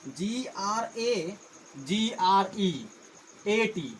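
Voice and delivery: letter by letter, drawn out; slow dictation of letters; slow spelling. Shown as a demonstration. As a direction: spell each letter out very slowly. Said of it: "दोनों के spelling में तुलना".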